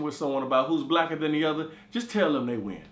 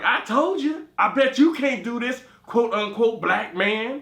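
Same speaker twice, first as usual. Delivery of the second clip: taunting friend; 4 semitones higher, 4 dB louder, slower than usual. Retold or imitated. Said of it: "And Kimberly was like".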